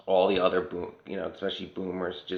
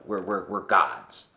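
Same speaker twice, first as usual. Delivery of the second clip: slow, lightly voiced pompous boomer; mock grandiose boomer; 4 dB louder, slower than usual. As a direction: drawl it out like a self-declared god. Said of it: "they get mad at you".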